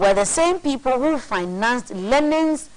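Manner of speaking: measured read from a printed text; reading aloud. Real, not acted. Co-host reads a conspiracy book to his partner, read aloud. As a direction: read out a weighty passage deliberately.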